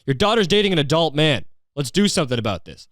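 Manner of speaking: high, pushy outrage at the mom; exasperated demand. Retold or imitated. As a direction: demand she step in, fed up. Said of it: "It's just like".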